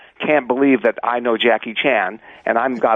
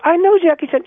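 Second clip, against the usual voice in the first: insistent retold boast; 4 dB louder than usual.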